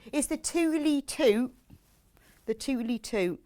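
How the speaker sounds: playful West Country burr on "totally tote"; West Country accent. Shown as a demonstration. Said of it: "has to be said in a West Country accent".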